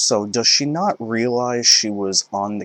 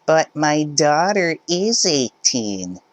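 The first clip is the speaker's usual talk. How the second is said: higher, indignant mother's voice; entitled mother; 7 semitones higher, slower than usual. Acted. Mother insisting to cashier, high indignant voice. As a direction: push back like a pushy parent.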